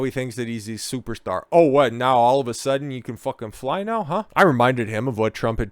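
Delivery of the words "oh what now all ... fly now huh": incredulous mock. Real, not acted. Mocking DeSantis's new arrogance.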